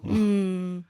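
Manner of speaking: short acted moan of approval; approving moan. Chandler answering Monica, moan of approval. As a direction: give an approving Mm. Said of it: "responds with a moan of approval".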